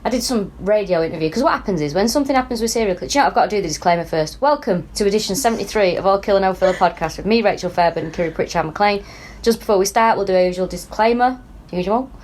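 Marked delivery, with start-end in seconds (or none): 4.4-12.1 podcast intro read. Shown as a demonstration. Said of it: "That was dog shit".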